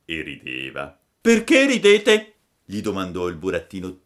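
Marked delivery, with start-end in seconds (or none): 1.2-2.3 put-on high, bright-eyed boy puppet voice; squeaky wooden puppet, a little puzzled. Pinocchio's voice in the story. (voce alta da burattino)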